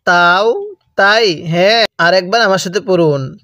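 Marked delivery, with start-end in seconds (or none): 0.1-1.4 তাও তাই with short vowels, never stretched; তাও তাই clipped, no elongation; no lengthening. Shown as a demonstration. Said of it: "এগুলোর মধ্যে কোনো টান দেওয়া যাবে না".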